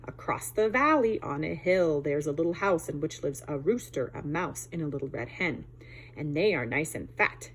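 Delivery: a hint of a gruff fox scheming. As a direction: growl it out like a sly old fox. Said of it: "in a gruff voice he said".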